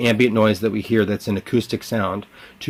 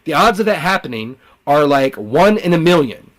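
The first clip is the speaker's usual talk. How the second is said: high, emphatic intruder voice slowing down; taunting voices; 6 semitones higher, 4 dB louder than usual. Pretend. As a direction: pitch it up and stretch out the odds.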